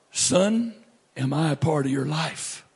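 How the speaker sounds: gently imitated voice of God; sweet voice. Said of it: "this sweet voice says to me".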